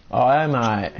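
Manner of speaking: mock Aussie. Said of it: "We get it, you're Aussie".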